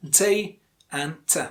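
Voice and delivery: DAY and TE said slowly, one by one; split into syllables. Shown as a demonstration. Teacher splitting data for learners, slow separate syllables. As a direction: break it into DAY, then TE. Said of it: "there are two syllables".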